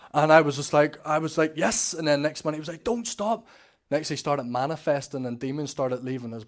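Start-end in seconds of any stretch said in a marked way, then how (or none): 1.6-1.9 tag. Retold or imitated. His elated reaction during prayer, retold. 2.8-3.5 high, raised imitation of a desperate plea; urgent pleading cry. Brother's repeated plea, acted.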